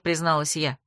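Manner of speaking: ordinary delivery, nothing marked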